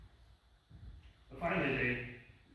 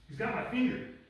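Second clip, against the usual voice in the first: higher, louder cry of alarm; imitated alarmed cry; 8 semitones higher, 6 dB louder than usual. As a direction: act out a nurse calling out in pain. Nurse's finger is being bitten.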